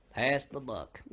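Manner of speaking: said without moving the lips; talking with mouth closed. Shown as a demonstration. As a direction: ventriloquist style, lips still. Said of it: "hard thing to say without moving your lips".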